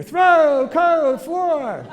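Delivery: mock kid's hearing; only verbs and nouns. Shown as a demonstration. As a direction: hit just "Throw", "coat", "floor". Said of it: "What does the kid hear".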